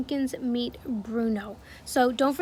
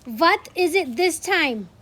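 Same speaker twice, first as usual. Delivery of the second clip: slow, louder demanding shout; irritated witch yelling through the door; 4 semitones higher, 6 dB louder, slower than usual. Acted. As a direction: bellow it at the door, slow and impatient. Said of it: "shouted the Grand High Witch".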